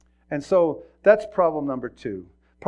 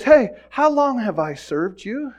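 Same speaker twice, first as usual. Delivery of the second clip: raised, high voice, arguing back; acted exasperated protest; remonstrating donkey; 9 semitones higher, 9 dB louder, slower than usual. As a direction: plead your case loudly, climbing to a cry. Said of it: "the donkey talks back again".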